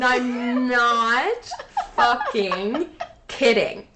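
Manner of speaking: slow words through laughter; laughing in disbelief; cracking up mid-sentence. Real, not acted. Laughing at the impression.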